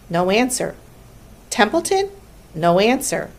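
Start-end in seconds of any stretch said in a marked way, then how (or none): 1.5-2.1 calling out a name. A narrator's reading. Charlotte calls for the rat who gave no answer, high questioning. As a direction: call into silence, pitched up.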